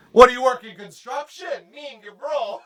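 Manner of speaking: high-pitched hammed-up bro voice; mock Italian guy. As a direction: open loud, then tease as an Italian bro. Puts on Montreal Italian guy voice.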